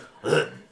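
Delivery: loud imitated choking snorts. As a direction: mimic a snorting dog choking, loudly. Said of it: "like, choking in the bushes".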